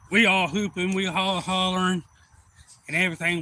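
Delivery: fired-up fishing tale; excited retelling. Retold or imitated. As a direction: relive the whooping over a big catch. Retells the celebration over the catch.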